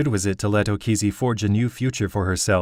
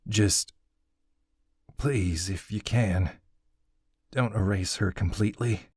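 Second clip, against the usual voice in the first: tender grief. Acted. Grieving father comforting softly.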